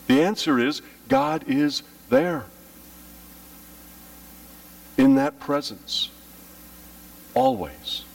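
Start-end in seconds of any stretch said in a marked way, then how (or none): 1.1-6.1 soaring. Acted. Preacher lifts voice high. 7.3-8.0 whisper. Acted. Whispered word.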